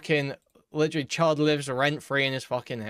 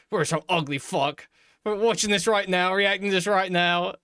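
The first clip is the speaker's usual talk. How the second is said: higher mock British-Australian accent; mock botched accent; 6 semitones higher than usual. Reactor imitating the streamer's bad Russian accent, mockingly British-Australian. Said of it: "poor attempt at a British accent".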